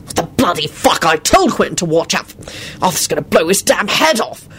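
distraught. A narrator's reading. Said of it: "so distraught".

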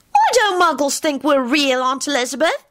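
put-on high-pitched child's question; Teddy piping up. A narrator's reading. Teddy asking his aunt about Muggles, piping up. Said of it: "Teddy asked loudly".

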